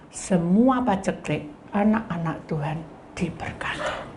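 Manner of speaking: hushed blessing whisper; soft whispered blessing to the church. Acted. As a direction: bless them in a breathy hush.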